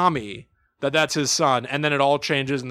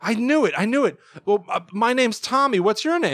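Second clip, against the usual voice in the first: put-on higher-pitched excited kid voice; raised baby-character voice; cartoon baby Tommy; 8 semitones higher than usual. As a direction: play a toddler thrilled to meet someone. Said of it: "And he goes".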